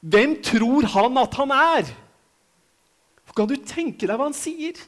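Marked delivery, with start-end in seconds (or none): 0.1-1.9 a touch of raised, scornful voice, a bit higher and slower; mock the people's outrage, lightly; indignant crowd. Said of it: "jeg vil tro at folket tenkte".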